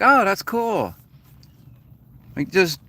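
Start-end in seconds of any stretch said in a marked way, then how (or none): 0.0-0.9 lightly voiced impressed stranger, pitched higher; a higher, easygoing nod of approval; a hint of an impressed tourist; impressed foreigner. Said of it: "are like".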